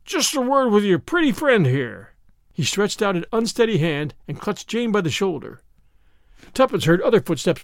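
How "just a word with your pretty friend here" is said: put-on drunk man. A narrator's reading. Drunk man grabs Jane.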